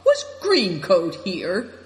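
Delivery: slow, loud rising question; shocked. A narrator's reading. Nai Dong asks about green coat, shocked. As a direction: ask it in disbelief, drawn out.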